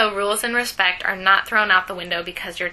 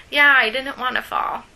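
put-on kid voice; 5 semitones higher, 5 dB louder than usual. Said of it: "my kid voice".

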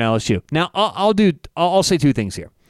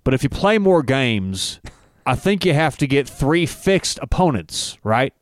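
Saban impression. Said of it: "here's how it would sound".

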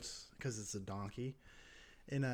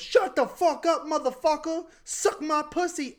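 13 semitones higher, 9 dB louder than usual. Retold or imitated. Storyteller as passenger snapping back at the apology, furious mock yell. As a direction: scream abuse in a hammed-up voice. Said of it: "looks over and goes".

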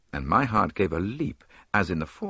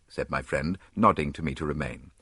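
usual speaking voice

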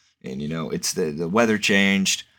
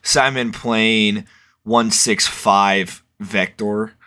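radio call; 2 semitones higher, 3 dB louder, much slower than usual. Shown as a demonstration. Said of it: "I just learned how to radio to the tower".

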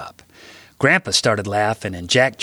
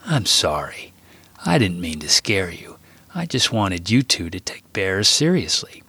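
calm. Acted. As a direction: soothe the boy with a calm apology. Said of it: "Grandpa said in a calm voice".

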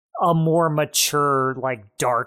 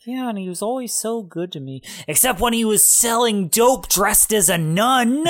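weird outburst; 6 semitones higher than usual. Retold or imitated. Witness praising the defendant then blurting his crime, mock outburst. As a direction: imitate a witness blurting it out, breaking into laughter. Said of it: "it's like this weird outburst".

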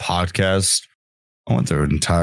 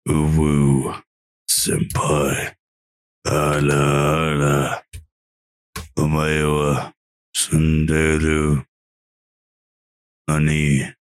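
breathy cutesy giggly; 5 semitones lower, slower than usual. Pretend. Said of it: "you're gonna get this right now in your ears".

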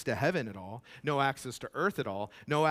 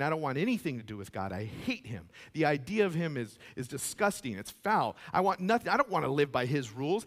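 defiant rejection; 3 semitones higher, 5 dB louder than usual. Retold or imitated. Voicing someone rejecting God.

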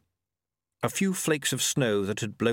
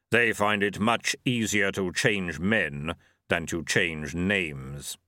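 low, slow, solemn Death; measured voice of the reaper; grim reaper voice; 3 semitones lower, slower than usual. Acted. Death speaks.

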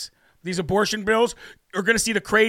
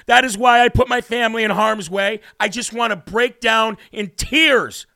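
louder, slowed, near tears with emotion; worked up; 2 semitones higher, 4 dB louder than usual. Real, not acted. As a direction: pour your heart out, close to breaking. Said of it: "I get so worked up over that stuff".

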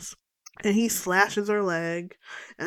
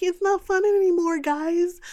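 lightly voiced whiny partygoer, pitched higher; a hint of a scared girl pleading with her friends; mock party girl; 10 semitones higher than usual. Party guest whining to friends that it's no longer funny, higher mock voice. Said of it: "one of the party people is like".

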